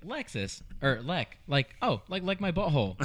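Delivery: put-on high, silly kid blurting; goofy kid voice. Boy hearing the sister's name, blurting high and silly. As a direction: imitate the boy's cheeky blurt.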